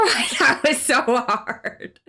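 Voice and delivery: ordinary delivery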